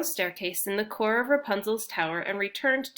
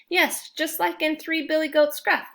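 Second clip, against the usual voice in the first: higher, eager and happy; happily; 8 semitones higher, 4 dB louder than usual. Acted. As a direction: gush like a fairy-tale fan. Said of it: "Alex said happily".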